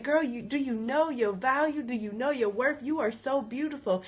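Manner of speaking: high, soft, tender encouragement; affirming friend. Retold or imitated. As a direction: lift her up as a loving friend would. Retold friend affirming her worth.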